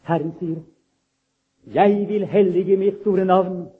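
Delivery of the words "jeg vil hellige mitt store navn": slow, solemn announcement, a little louder; a hint of God's proclamation. Preacher voices the Lord's promise to his people, slow and solemn. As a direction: proclaim it slowly like a divine promise.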